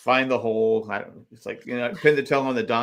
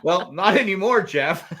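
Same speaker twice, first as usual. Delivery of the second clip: laughing reply; 5 semitones higher than usual. Pretend. Answering Jeff as a contestant.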